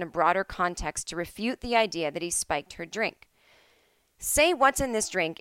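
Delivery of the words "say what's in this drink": higher, slow, stressed SAY like a 1930s film; old movie line. Shown as a demonstration. Explaining a classic film phrase, tipsy old-movie delivery. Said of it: "is a well-used phrase".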